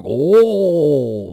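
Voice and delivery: high, loud gasping "Oh" of an awed crowd; hushed Japanese crowd reacting together; collective crowd gasp. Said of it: "like a, a collective".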